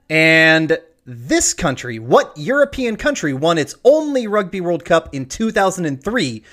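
measured quiz-show question read; quiz host read. Acted.

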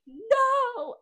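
high, loud mock cry; dramatic no. Friend voicing Beth's tearful refusal in the scene. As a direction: fling the no out theatrically. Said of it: "Beth is like".

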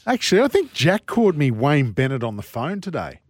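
ventriloquist talk, lips barely moving. Real, not acted. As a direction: speak without moving your lips. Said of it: "If you talk like a ventriloquist, ventriloquist where you don't move your lips".

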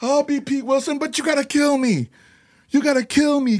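high, excited impression of a singer; the singer on the phone, begging to be killed, high and excited; a singer's voice. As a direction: pitch it up and plead gleefully. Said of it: "he come and pick up the phone".

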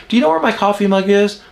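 high, quick, easygoing question; nice and kind. Shown as a demonstration. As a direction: ask lightly, as if it's no big deal. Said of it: "I need to be nice and I need to be kind".

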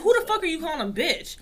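high-pitched mock outrage; retold indignant comeback. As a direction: challenge the insult, reenacting it.

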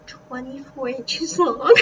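excited. Real, not acted. Amazed at huge tail.

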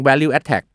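"value attack" run together, ending in "tack" without an s; mispronounced value-attack. Shown as a demonstration. Host showing listeners a common mistake, mispronounced value-attack. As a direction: drop the final s, making tax sound like "tack". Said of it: "บางทีไปออกเสียง".

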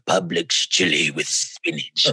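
hammy eerie announcer; bad spooky impression. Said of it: "That's terrible impression".

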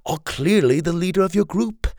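a scheming rebel leader flattering his captive; Kai, smooth villain. Acted. Narrator voices Kai.

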